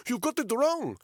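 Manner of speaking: panicked high shout. Acted. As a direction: shout the plea even harder. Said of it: "he said in Russian".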